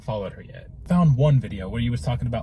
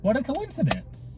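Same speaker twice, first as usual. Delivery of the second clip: mock surprise; 11 semitones higher, slower than usual. Real, not acted. Mock surprise, high, slow.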